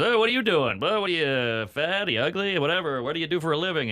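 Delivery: high sneering voice; mock the people who pester her; a hammed-up high taunting crowd voice; mocking nosy audience member. Mocking audience question quoted.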